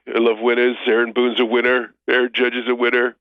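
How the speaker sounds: boastful Trump voice; hammed-up Trump bragging about winners; Trump impression.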